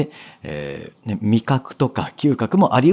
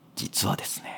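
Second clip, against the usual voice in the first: almost whispered, very hushed and quiet. Explaining lowering one's volume, says a line in a near-whisper. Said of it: "逆に声量を落として、もうささやきに近いくらいの声で".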